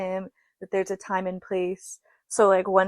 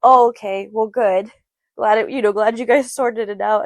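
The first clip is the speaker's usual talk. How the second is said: mock relieved kid; 6 dB louder than usual. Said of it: "He goes".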